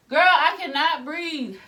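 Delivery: loud mock distress answering the nurse; exasperated protest. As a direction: drag it out like you're desperate. Retelling pain at cervical check.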